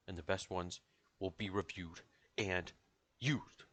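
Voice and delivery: deliberate, slow-paced show outro; announcer sign-off. Pretend. Host concluding the talk show, in a measured announcer sign-off. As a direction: close the show word by word, with pauses.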